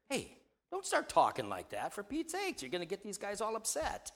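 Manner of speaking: lightly voiced Peter, jumping high on For Pete's sake; a hint of a fussy friend pulling him aside; preacher playing Peter, rising into a mock exasperated scold.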